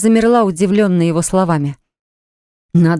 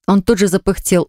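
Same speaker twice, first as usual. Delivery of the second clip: ordinary delivery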